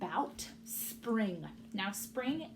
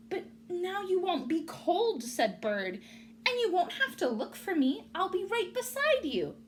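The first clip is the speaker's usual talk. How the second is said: cheerful bird; 9 semitones higher, 4 dB louder than usual. Acted. Bird reassuring.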